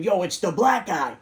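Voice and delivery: a mild mock shout at a crowd; mock scream. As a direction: call it out across the room, half-hearted. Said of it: "But if I scream".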